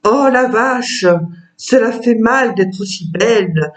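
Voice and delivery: measured poem reading with pauses between verses; poem recitation. Acted. Author reads her poem about a cow to present her book, measured recitation. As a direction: recite the verses evenly, letting each rhyme land.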